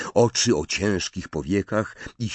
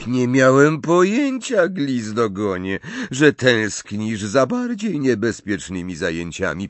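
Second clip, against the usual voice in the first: loud, high, venomous mockery; sweetly poisonous sneer; soft but venomous; 6 semitones higher, 6 dB louder than usual. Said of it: "łagodnym, ale jadowitym tonem".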